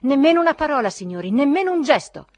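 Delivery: high, very loud command; solemn cry. A narrator's reading. Zverkov checking the indignant company, solemn loud cry. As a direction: halt them all with a grand shout. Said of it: "gridò solennemente Zverkov".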